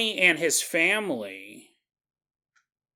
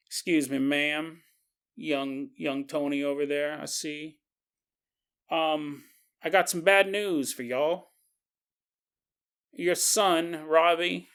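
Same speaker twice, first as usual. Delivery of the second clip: lightly put-on country sheriff accent; sheriff's drawling accent; slower than usual. Sheriff telling a mother bad news, mild country accent. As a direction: break bad news in a folksy lawman accent. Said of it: "I don't know why I gave him this accent".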